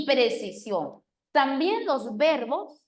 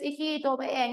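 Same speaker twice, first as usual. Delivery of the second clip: sweet mother's call; 2 semitones higher than usual. Retold or imitated. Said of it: "una cosa es".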